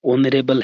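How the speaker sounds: "ऑनरेबल" starting straight on an O sound; "ऑनरेबल" begun with the vowel O; vowel-initial pronunciation. Shown as a demonstration. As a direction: say "ऑनरेबल" with a silent h, opening on O. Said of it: "ओ से start होता है".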